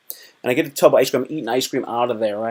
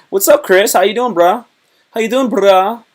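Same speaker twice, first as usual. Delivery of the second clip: hyped greeting; 8 semitones higher, 6 dB louder than usual. Real, not acted. Greeting viewer on stream.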